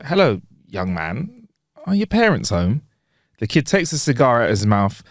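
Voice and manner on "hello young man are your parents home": hesitant, slightly taken-aback acted question; mild surprise. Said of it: "a little surprised and goes".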